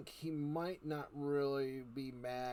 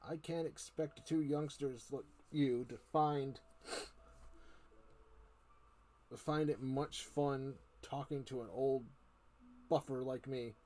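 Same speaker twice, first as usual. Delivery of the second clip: put-on cunning old uncle; 5 dB louder than usual. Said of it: "with a cunning smile".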